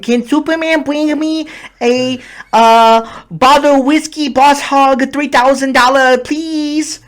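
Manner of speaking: high, slow put-on Asian accent; Asian-sounding accent. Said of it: "Why do you sound Asian?".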